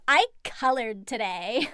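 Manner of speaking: put-on airy Valley Girl brag. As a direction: play it like a bored Valley Girl. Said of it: "she'll go into it too".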